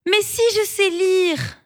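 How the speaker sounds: high, indignant little mole; high startled cry of a small mole; taken aback. Acted. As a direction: protest in surprise. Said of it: "s'écrie la petite taupe interloquée".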